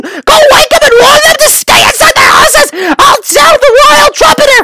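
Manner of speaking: urgent shout. Acted. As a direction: shout orders while rushing off. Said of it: "he shouted".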